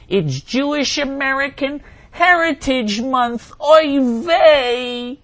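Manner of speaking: very high, slow, put-on Jewish accent; mock Jewish accent. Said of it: "Please pronounce this in a self-hating Jewish accent".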